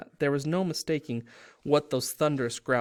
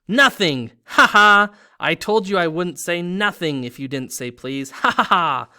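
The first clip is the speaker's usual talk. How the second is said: loud cackling mockery; gleeful taunt; 4 semitones higher, 11 dB louder than usual. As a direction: crow over him, laughing. Peeves mocking Filch, cackling.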